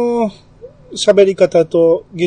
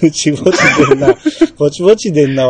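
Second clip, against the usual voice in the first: laughing echo; 5 dB louder, faster than usual. Real, not acted. Amused echo of merchant phrase.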